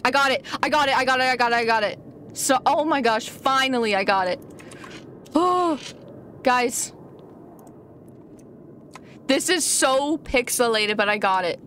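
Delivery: usual speaking voice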